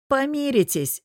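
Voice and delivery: high, scoffing reply; snorting dismissal. A narrator's reading. Friend to Bogdan, scoffing. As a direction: brush it off with a little snort. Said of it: "хмыкнул друг".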